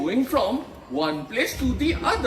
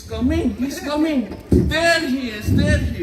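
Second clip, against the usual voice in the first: excited announcing. Acted.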